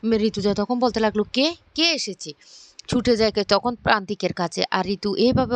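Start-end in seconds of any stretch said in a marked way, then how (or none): 1.4-2.3 higher-pitched startled question; surprised. A narrator's reading. Rituja hears a familiar voice call out, surprised. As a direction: voice lifting in astonishment. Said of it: "ঋতু অবাক হয়ে যায়".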